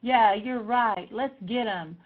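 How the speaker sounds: loud, slow rallying cheer of support; emphatic agreement. Retold or imitated. Backing a mad friend, loud indignant agreement. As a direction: back them up with drawn-out, punchy conviction. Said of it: "What I need you to do is say".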